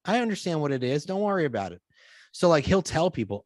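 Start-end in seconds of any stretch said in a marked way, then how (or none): 0.0-1.8 high, bright mock voice of a friendly stranger; imitating the man at the theater. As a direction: play the kind stranger, pitched way up. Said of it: "And the guy goes".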